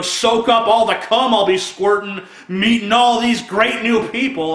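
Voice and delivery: mock excitement. Comic parodying joy at meeting strangers, mock excitement. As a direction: keep up the hammed-up eagerness. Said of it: "It's not like".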